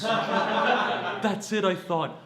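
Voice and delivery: high, loud triumphant cry; mock triumph. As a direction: proclaim it like a hard-won victory. Acted triumph of his younger self.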